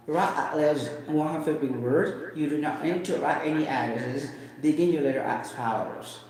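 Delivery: mild British English accent on the prompt. Shown as a demonstration. To the viewers, reading the test prompt the British way. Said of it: "That is British English".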